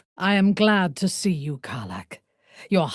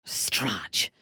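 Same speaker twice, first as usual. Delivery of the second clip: a low, voiceless word; low whisper; 8 semitones lower, 7 dB quieter than usual. Acted. A dark elf whispering a curse in the dark. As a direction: hush it down low.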